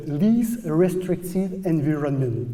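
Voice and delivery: slow, careful English with a French Canadian accent; a hint of Acadian French accent on English words. Real, not acted. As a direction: read the English term slowly in a Francophone accent. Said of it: "excusez tout de suite mon accent".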